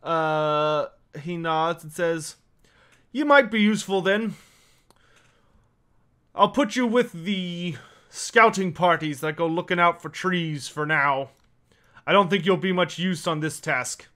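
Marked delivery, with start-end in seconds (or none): 3.1-14.1 lightly voiced dwarf giving out work; a hint of a dwarf boss deciding; dwarf character. Dwarf assigns newcomer to scouting parties, lightly voiced character.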